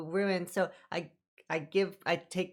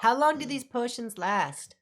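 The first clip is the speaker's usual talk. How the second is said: character voice; 4 semitones higher, slower than usual. Acted. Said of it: "That's why I said my character voice".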